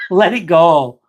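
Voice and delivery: laughing self-advice. Real, not acted. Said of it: "I need to follow my own advice here".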